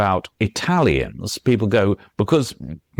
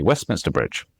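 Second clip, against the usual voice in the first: "Westminster Bridge" said lightly, the middle syllables hurried; natural, quick; 3 semitones lower, 3 dB quieter than usual. Shown as a demonstration. Author shows how the bridge is naturally said, quick. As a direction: run "Westminster Bridge" together as in everyday speech. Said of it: "just say that naturally".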